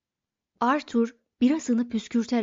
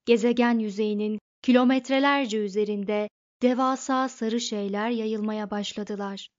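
ordinary delivery

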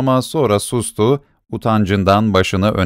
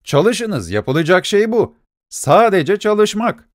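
higher, slowing on the last word; stern rebuke; 8 semitones higher, slower than usual. A narrator's reading. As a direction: hammer home the lesson. Angry lawyer lecturing beggar. (dilenciyi azarlayan öfkeli avukat)

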